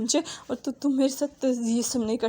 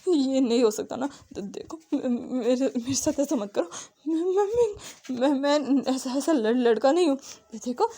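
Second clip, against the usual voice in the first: stammering, tearful begging; a scared young man begging to be let go; frightened pleading. Acted. Wang ji pleads with Wing to release him.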